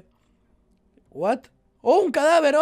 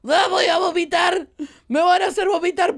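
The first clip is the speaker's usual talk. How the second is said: higher, louder, half-joking wail about feeling sick; mock queasy cry; 5 semitones higher, 3 dB louder than usual. Real, not acted. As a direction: play up the nausea on the ride for laughs. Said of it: "Me estoy mareando". (queja exagerada de mareo, más aguda y fuerte)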